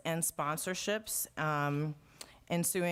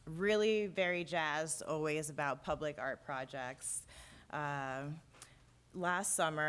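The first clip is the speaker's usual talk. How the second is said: winded, short of breath. Real, not acted. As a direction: talk while catching your breath. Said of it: "I'm catching my breath".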